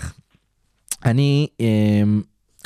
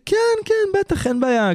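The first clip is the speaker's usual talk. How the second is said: חיקוי גבוה מאוד של הבחור הנלהב; מחקה את הדייט שמסכים בהתלהבות; חיקוי נלהב. Retold or imitated. Mimicking the eager date. (מחקה את הבחור מהדייט בקול גבוה ונלהב)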